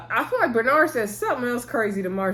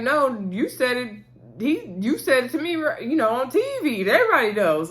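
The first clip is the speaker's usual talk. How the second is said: retold irritation; 2 semitones higher than usual. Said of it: "Miss Wanda's kinda irritated with her son".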